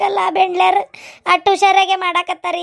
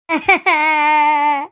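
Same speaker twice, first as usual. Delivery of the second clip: hammed-up sobbing; 3 semitones lower than usual. Distraught woman before her neighbour, hammed-up sobbing. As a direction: sob in a string of bursts. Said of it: "ಅದಕ್ಕೆ ಏನಾರ ಅಳಗಳಕತ್ತಾಳ ನೋಡು".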